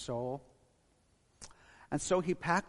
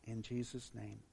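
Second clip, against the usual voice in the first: measured prayer with long pauses. Real, not acted. Pastor leads congregation in closing prayer, measured and reverent. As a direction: address God reverently, leaving space between phrases.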